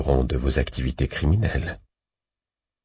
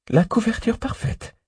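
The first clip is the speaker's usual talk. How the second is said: avec le sourire. A narrator's reading. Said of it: "réplique-t-il avec le sourire".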